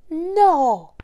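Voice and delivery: high squeaky piglet. Acted. Piglet refuses the wolf.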